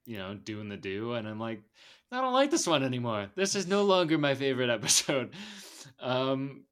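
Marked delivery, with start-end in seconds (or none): 2.1-5.3 louder, higher mock protest; mock dismay. Podcaster retelling reaction to a gross episode twist, mock dismay. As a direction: protest in half-laughing disgust.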